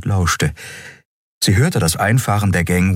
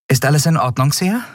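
put-on higher, brisk young woman's voice; young captain Andriel; 9 semitones higher, faster than usual. A narrator's reading. Captain explains to her crew, lively and quick. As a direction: lift it up and push on briskly.

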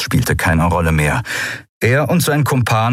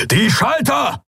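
high shouted command; bellowing; slower than usual. Acted. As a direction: yell it across the fight. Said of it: "brüllte Kero".

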